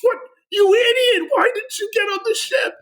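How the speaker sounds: mock fury at a teammate's blunder; a hammed-up shriek of disbelief at a friend; angry friend. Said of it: "my friend on the mic, going".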